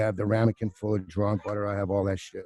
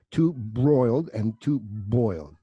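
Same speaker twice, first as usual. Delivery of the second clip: careful read-back; slower than usual. Retold or imitated. Waiter reads the order back carefully.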